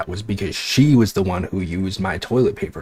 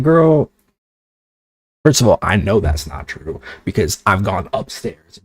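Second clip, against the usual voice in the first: sassy comeback. Retold or imitated. Arguing with roommate over toilet paper.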